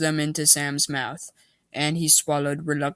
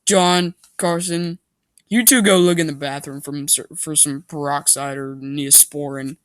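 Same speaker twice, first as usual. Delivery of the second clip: mild shout; 4 dB louder than usual. Acted. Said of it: "I heard Meg shout".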